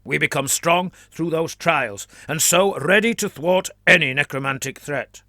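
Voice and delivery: put-on fervent flagellant in a Trantian accent; a zealot declaring in a Trantian accent; lightly voiced Trantian accent. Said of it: "declared the man in a Trantian accent".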